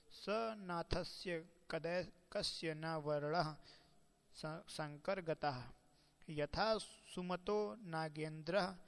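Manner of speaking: slow, measured chanting of a shloka; recited like a scholar quoting scripture; Sanskrit verse recitation. Acted. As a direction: intone each word of the verse carefully.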